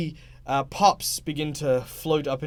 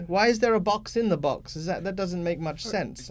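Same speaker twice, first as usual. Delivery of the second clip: put-on puzzled child; 5 semitones higher than usual. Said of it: "He says".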